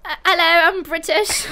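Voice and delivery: awkward attempt at a British accent. Shown as a demonstration. Goaded by friends into it, shaky British accent. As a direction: try a bad British accent, embarrassed. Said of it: "We'll all do our British accents".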